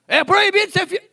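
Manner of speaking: booming mock decree, dragged out; mock proclamation. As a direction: announce the absurd ban as if it were law. Mocking an absurd law.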